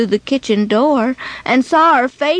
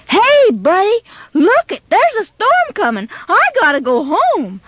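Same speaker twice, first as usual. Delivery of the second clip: put-on higher urgent kid voice; a touch of alarm in a boy's voice; worried warning; 6 semitones higher than usual. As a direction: call out to a pal that a storm is coming. Boy warns of the storm.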